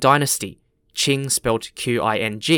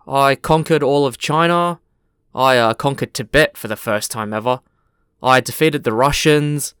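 deadpan. Acted. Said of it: "he replies in a very deadpan voice".

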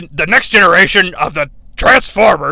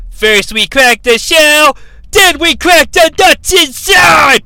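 slow, higher, louder gleeful threat; Rumble's shout; 8 semitones higher, 4 dB louder, slower than usual. Retold or imitated. Rumble threatens Blaster's dome, shouting. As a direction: bellow like a little brute robot. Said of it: "what does he say".

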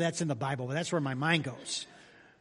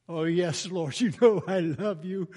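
eager answer; 5 dB louder than usual. Pretend. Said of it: "Peter answering Jesus".

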